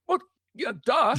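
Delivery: sarcastic duh squeaked up high and loud; mock duh. Imitating Dave brushing off an obvious question in a high mock voice.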